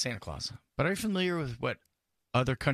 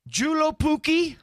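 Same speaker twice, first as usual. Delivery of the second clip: hammed-up quiz reading; 12 semitones higher, 5 dB louder, slower than usual.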